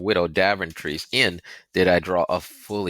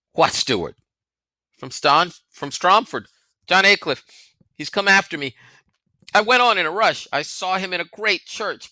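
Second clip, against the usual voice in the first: higher, rushed, breathless explanation; anxious boy; 7 semitones higher, 3 dB louder than usual. A narrator's reading. Crispin to Bear after the attack, anxious rushing. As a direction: blurt it out, frightened and hurried.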